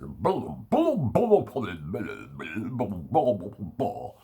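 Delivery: put-on tune out like a sulky child; childish blah blah. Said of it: "my fucking child attitude comes out".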